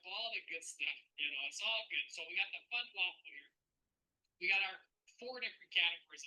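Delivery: lightly put-on Canadian accent; amateur attempt at a Canadian accent. Shown as a demonstration. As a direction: try your best folksy Canadian accent. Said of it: "I'm gonna try my best Canadian accent".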